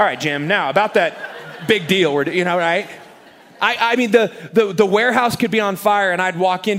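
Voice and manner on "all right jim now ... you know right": breezy, busy, brushing-off, dismissive tone. Retelling how the boss answered while on the phone: imitating Dave. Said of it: "He'd be like".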